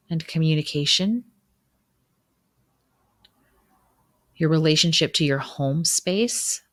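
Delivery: even, measured reflection with long pauses; gently prompt, then leave space to reflect; guided meditation. Acted. Guide leading listeners through a winter solstice reflection, guided meditation.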